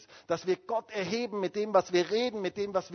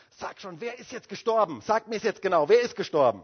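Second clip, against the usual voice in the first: impatient outburst, building louder; retold choleric demand; 3 semitones higher, 4 dB louder than usual. Luther demanding his wife finally tell him, irritably. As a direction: act out a hot-tempered husband demanding an answer. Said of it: "war ja ein ziemlicher Choleriker".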